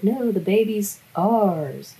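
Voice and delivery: slow, insistent alien claim. Retold or imitated. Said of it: "he's like".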